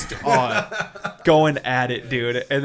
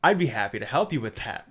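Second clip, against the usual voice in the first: totally calm; 4 semitones lower, faster than usual. Retold or imitated. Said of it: "totally calm".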